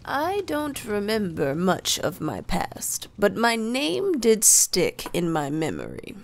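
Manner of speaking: even, unhurried wizard's telling; calm voice. Acted. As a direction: speak calmly, as if nothing rushes you. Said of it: "says in a calm voice".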